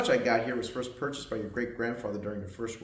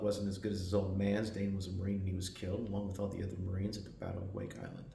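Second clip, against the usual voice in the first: subdued; 3 semitones lower, 5 dB quieter than usual. Acted. Tells boy of grandfather's death.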